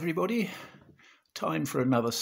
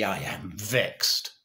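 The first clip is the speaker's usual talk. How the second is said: vexed mother; 2 semitones lower, much slower than usual. Acted. Mother's understated reaction to the news.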